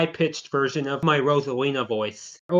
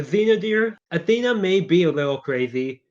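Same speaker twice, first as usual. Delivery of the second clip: lightly put-on character voice, lifting higher at the end; lightly voiced crazy villainess; 7 semitones higher than usual. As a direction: play a sweetly unhinged character, pitch climbing. Plays a character in skit.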